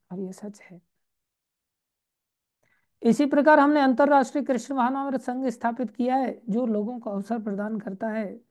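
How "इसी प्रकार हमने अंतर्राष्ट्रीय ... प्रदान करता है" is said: formal, projected scripture reading; reading aloud. Acted. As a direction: read it out to the congregation. Reads the scripture text aloud.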